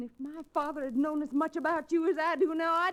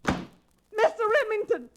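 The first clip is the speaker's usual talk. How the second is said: drawn-out call, slow and louder; 5 semitones higher, 4 dB louder, slower than usual. Acted. Dixie calls after the departing Remington, slow and raised. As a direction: call him back as he leaves.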